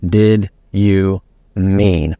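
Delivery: Did drawn out slowly, each word spaced; slow, deliberate question. Shown as a demonstration. Coach demonstrating the key question, slow and even. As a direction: ask "Did you mean?" very slowly. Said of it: "setting up the phrase".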